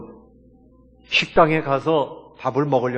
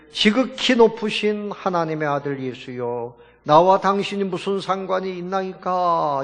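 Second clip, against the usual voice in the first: mild mock crying out; 5 semitones higher than usual. Pastor voices the possessed man before Jesus, mildly mock crying out. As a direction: cry it out in imitation, not at full volume. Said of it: "큰 소리로 부르짖어 이르되".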